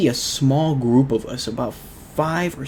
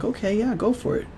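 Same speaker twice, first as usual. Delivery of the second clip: surprised go-ahead; 11 semitones higher, 4 dB quieter, faster than usual. Retold or imitated. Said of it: "And we were like".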